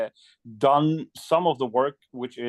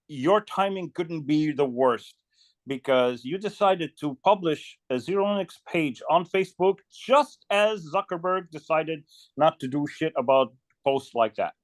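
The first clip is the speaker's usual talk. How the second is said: quoted complaint, pitched higher, drawn out slowly at first; raised-pitch mock reproach, easing down at the end; retold online scolding; 4 semitones higher than usual. People scolding him over the page's timing, retold reproach. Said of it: "people were like".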